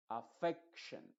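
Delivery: "affection" slow, with the e of "fec" punched; stress on the e. Shown as a demonstration. Teacher stressing the e in "affection", slowly. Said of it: "la E es la que va a llevar la fuerza de la voz".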